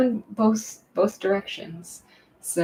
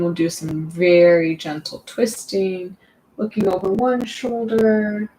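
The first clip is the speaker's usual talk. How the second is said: guided yoga instruction; 4 dB louder than usual. Real, not acted. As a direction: guide them through each stretch with long pauses. Guides seated stretching.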